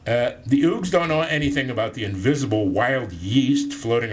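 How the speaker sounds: lively storytelling read-aloud; book reading. Acted. Reads his book aloud.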